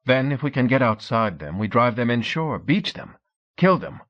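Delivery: he can't believe they don't know; young Norseman explaining the whale hunt with relish; incredulous then excited. A narrator's reading. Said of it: "unable to believe his ears".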